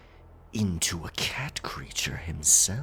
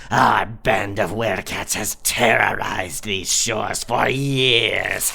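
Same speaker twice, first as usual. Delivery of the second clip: louder, proud villain boast; menacing boast; 7 dB louder than usual. Acted. Werecat captain boasts to his captives, menacing and loud. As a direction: declare the terror with relish.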